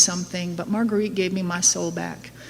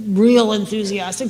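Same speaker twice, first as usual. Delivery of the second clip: drawn-out enthusiastic. Shown as a demonstration. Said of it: "start out enthusiastic".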